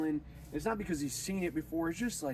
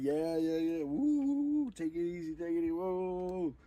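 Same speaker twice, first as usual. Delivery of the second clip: whooping, then playing it cool; higher cocky woo and take it easy; cocky victory; 4 semitones higher than usual. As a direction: brush off the praise after the clutch. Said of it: "you're like".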